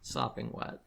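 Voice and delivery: breathy whispered repeat. Acted. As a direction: whisper it back.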